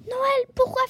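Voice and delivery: loud, high, drawn-out scoff; abrupt fox dismissing the whole idea; brusque. Acted. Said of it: "répondit Filou le renard d'un ton brusque".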